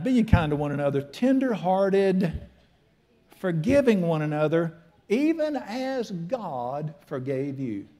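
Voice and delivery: preacher reading scripture aloud; slow verse reading. Shown as a demonstration. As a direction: lean on every word, slowly. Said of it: "reading the verse with emphasis".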